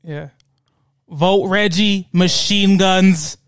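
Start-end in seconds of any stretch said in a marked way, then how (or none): 1.1-3.4 very slow ad announcer; campaign ad voice. Pretend. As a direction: draw out the slogan.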